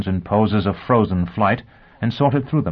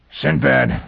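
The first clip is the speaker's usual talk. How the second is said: higher, strangled gasp of a word; throttled, effortful voice; 6 semitones higher than usual. A narrator's reading. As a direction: squeeze it out as if being choked. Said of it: "he said in a strangled voice".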